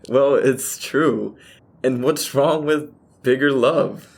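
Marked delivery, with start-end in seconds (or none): 0.1-1.4 slow playful. Acted. Laughing defense of bigger love.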